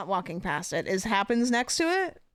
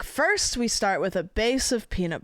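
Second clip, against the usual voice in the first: Italian chef. Retold or imitated. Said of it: "as if I'm like an Italian chef".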